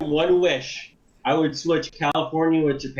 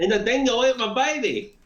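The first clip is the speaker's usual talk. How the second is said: higher-pitched fake Aussie; mock Australian accent; 5 semitones higher than usual. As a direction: ham up a bad Australian accent. Joking put-on Australian slang.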